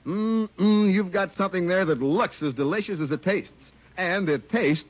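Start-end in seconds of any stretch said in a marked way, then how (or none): none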